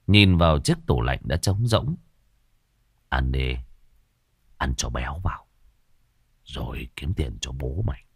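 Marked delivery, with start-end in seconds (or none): 3.1-8.0 low and soft, quietly threatening; low menacing murmur. Acted. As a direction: push her to eat with cold menace. Husband forcing wife to eat.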